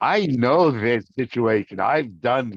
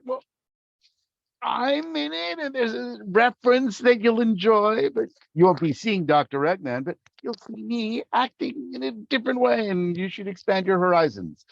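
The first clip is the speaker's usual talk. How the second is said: much higher, strained sales-pitch voice; evasive high voice; 10 semitones higher than usual. Acted. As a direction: hedge brightly in a put-on high voice. Acting out answer to hopeful fans.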